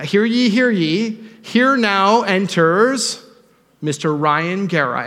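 loud, slow, high herald call in a hammed-up British accent; bad British accent. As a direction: announce him like a mock British royal herald, slow and grand. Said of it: "I wanna do a British accent, but it will be terrible".

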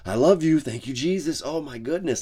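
high, loud, hammed-up blessings through gritted teeth; forced cheerful praying behind the wheel; mock frantic praise. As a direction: overdo the holy calm while furious in traffic. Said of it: "And it's just like".

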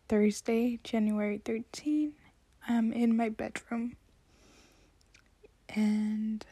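hushed late-night whisper; talking weirdly. Real, not acted. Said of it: "I'm sorry if I'm talking very weirdly".

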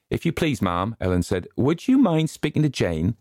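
polite, nervous request; timid maid Ellen. A narrator's reading.

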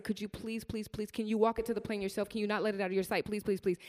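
begging the airline lady on the phone, hushed and pleading. Retold or imitated. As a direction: beg her gently not to let it out of her sight. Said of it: "I said".

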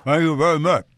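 talking with tongue in cheek. Shown as a demonstration. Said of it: "I'm trying to talk with my tongue in my cheek".

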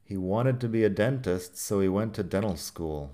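"dental" said "denal", T swallowed; relaxed American T's. Shown as a demonstration. Teacher modelling relaxed American speech. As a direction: let the T's drop in "dental" and "wanted". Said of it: "Fíjate que dental".

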